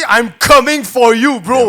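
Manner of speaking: slowed, lightly menacing mock threat. Retelling the tweet to Chris, mild slow mock threat. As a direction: stretch out the threat, half laughing. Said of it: "elle dit".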